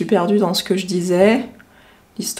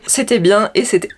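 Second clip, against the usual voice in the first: hiccups. Real, not acted. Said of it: "j'ai le hoquet".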